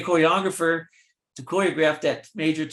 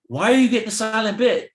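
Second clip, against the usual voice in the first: suspicious question; 8 semitones higher, 5 dB louder than usual. Retold or imitated. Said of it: "saw it and went".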